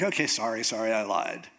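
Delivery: low, placating mock apology; meek apology. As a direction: give in meekly, pitch dropped. Samson gives in and apologizes.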